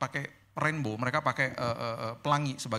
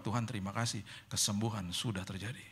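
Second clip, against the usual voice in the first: quiet prayer; 5 semitones lower, 7 dB quieter than usual. Retold or imitated.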